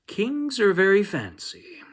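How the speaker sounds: put-on high, excited little-boy voice; Danny's voice. Danny telling the dinosaur about kings, high and eager.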